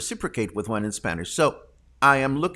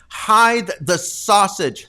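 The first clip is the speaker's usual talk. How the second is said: louder, slow, relishing every word; delighted; 5 semitones higher, 7 dB louder, slower than usual. Real, not acted. Host thrilled reading a viewer's comment aloud, delighted. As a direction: savour the phrase with glee.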